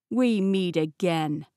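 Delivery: slow sneering gloat with a grin; evil grin. Acted. Peter sneering at the girl, slow evil gloat. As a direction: savour it like a villain who has won. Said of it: "he said with an evil grin".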